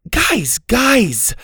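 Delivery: high, loud calling out; shouting. A narrator's reading. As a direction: break up the fight. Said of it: "Susie shouted".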